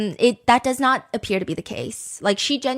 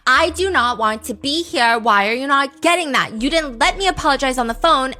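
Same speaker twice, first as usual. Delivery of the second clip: louder, insistent retold argument; mock exasperation, raised voice; acted angry complaint; 4 semitones higher, 5 dB louder than usual. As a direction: act out her indignant protest. Acted quarrel, her angry texts.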